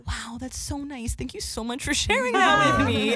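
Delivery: mock politeness. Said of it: "And I'm like".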